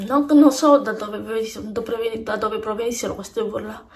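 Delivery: panting after rushing back; breathless from running around the house; out of breath. Real, not acted. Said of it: "Scusate le fiatone".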